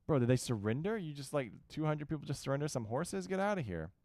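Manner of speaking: incredulous. Real, not acted. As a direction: sound amazed and unbelieving. Incredulous at enemy surrendering.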